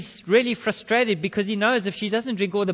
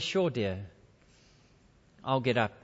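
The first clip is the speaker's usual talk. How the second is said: low, mild husband's reply; kind husband; 5 semitones lower than usual. Acted. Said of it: "Being the compassionate, kind husband he is".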